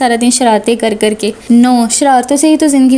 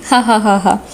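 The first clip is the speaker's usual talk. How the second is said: laughing maid; 3 semitones lower than usual. A narrator's reading. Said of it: "काम वाली मासी से देखकर हंसना".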